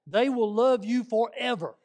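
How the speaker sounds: loud and laughing, slowed for the punchline. Real, not acted. Preacher joking with church about missionaries and grits, laughing loudly. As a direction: laugh it out big and slow.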